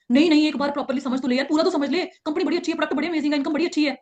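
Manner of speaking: won't take no, keeps pushing the pitch; pushy weak leader. Shown as a demonstration. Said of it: "वीक leader वहां पे पता क्या करेगा".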